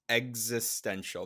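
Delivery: "existential" slowly as egg-zis-TEN-shul; careful correct pronunciation. Shown as a demonstration. Co-host teaching the word, careful "existential" as egg-zis-ten-shul. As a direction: model "existential" with a clear "gz" start. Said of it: "There's no T".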